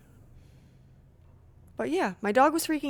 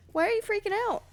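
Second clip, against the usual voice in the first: cooing to dog; 8 semitones higher, much faster than usual. Real, not acted. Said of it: "my dog is having a panic attack".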